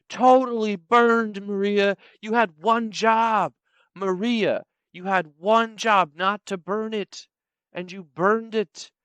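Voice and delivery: loud, drawn-out exasperation; mock scolding. Manager scolding Maria over a burnt pizza, mock scolding. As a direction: lay into the worker, stretching the key words.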